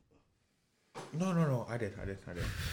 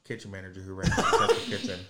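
laughing mock boast; 3 semitones higher, 5 dB louder than usual. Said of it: "I'm like".

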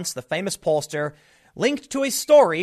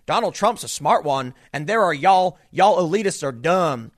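put-on Southern accent; 3 dB louder than usual. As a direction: imitate a Southern good ol' boy. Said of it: "he broke out into a Southern accent".

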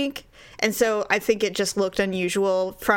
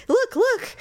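high, urgent mock panic; freaking out. Husband showing his wife screenshots as proof, mock freak-out. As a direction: imitate a husband frantically pleading his case. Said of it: "he's freaking out".

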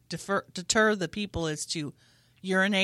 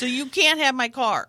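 mock defiant refusal; 6 semitones higher, 5 dB louder than usual. Acted driver refusing the carjacker.

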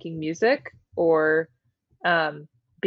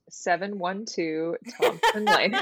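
deadpan joke; slower than usual. Pretend. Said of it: "I'm just kidding".

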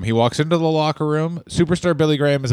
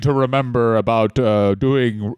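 put-on low, deliberate old champion; low-pitched wrestler giving solemn advice; Bruno Sammartino; 5 semitones lower than usual. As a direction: lecture in a lowered impression voice. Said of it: "That's better".

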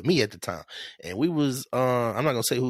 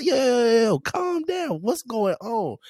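mock panicked calming; 12 semitones higher than usual. Panicked friend calmed on phone.

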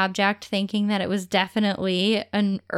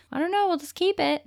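put-on Canadian accent; 6 semitones higher, faster than usual. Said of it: "Those Canadian sisters are like".

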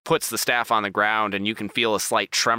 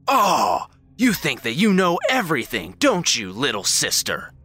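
hammed-up anime villain taunt; sneering anime dub villain; overacted anime dub; 3 semitones higher than usual. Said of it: "He talks like an anime character".

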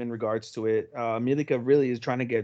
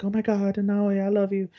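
put-on higher, swooning girlish voice; lovestruck gush; 7 semitones higher than usual. Nagisa swooning over Naoya, higher and lovestruck. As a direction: gush it like a smitten girl. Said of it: "her heart's like".

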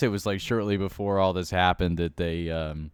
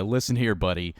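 1 suburban guy; 5 dB louder than usual. Retold or imitated. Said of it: "your average suburban white guy says".

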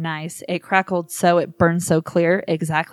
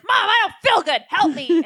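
high, fast whine; whiny sick kid; 11 semitones higher, faster than usual. Retold or imitated. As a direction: whimper it quickly. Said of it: "I was like".

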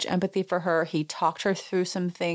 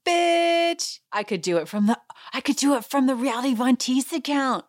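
hammed-up voicemail rant; theatrical reading of someone's catty voice message; dramatic reenactment; 3 semitones higher than usual. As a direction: act out a heated voicemail with lively, swooping emphasis. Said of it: "Here comes a dramatic reenactment of the voicemail".

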